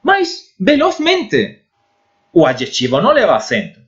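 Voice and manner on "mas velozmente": velozmente drawn out slowly, Spanish z as θ; Spanish pronunciation. Shown as a demonstration. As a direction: stretch out velozmente, be-loθ-MEN-te. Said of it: "quando coloco o sufixo mente". (velozmente bem devagar, com z espanhol)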